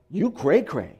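put-on laughing, playful hip-kid voice; a hint of a hip kid, with a laugh; hip slang. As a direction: toss it off like a hip teen. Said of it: "if you're really hip, it would be like".

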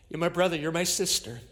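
normal talking voice

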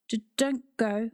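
weak rusty croak. Acted. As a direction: croak it out, hoarse and slow. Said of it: "croaked Nan, her voice a little rusty".

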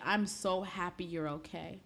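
softly voiced, gentle reassurance; warm relief. Forgiving friend greeting someone who went silent, warm and soft. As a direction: say it softly, like a welcoming hug. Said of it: "met you with a hug".

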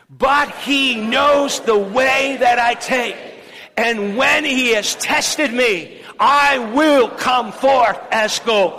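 preacher whipping the church into a loud proclamation; say it like you mean it. Shown as a demonstration. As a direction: proclaim it with full force. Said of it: "let's say it like we really mean it".

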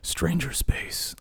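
slow, high, drawn-out show title; title announcement. Shown as a demonstration. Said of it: "That's gonna be the name".

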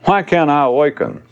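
high, self-pitying plaint; inner voice, complaining. Acted. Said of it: "Or worse than that is".

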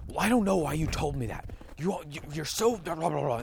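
a hint of a snappy parent mid-argument; mock bickering parent. Parent sniping at spouse in a quick fight, mock bickering.

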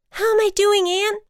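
high, loud nervous check-in; jittery storybook voice; anxious butterfly. A narrator's reading. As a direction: call out tensely mid-flight. Butterfly flying blind.

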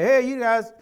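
lightly voiced dad begging his kids for a Father's Day call; a hint of a whiny father fishing for attention; lightly playing a dad pestering his kids to call; mock needy dad. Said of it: "I never say".

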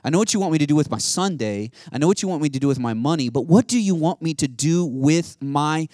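earnest preacher searching for purpose; impassioned preaching. Acted. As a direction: press each question on the listeners. Preaching at full force.

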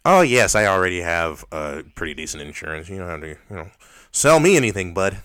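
exaggeratedly polite white phone voice; white person phone voice. Shown as a demonstration. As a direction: brush off a caller in a put-on white voice. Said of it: "white person voice on the phone".

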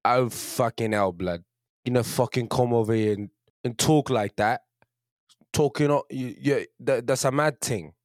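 put-on London Cockney street talk; London street accent. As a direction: play a confrontational London lad. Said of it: "I used to be all right at it".

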